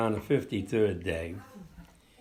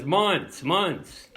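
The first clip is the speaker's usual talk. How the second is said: retold yell; 5 semitones higher than usual. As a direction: call the missing defendant across the courtroom. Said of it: "he yells out".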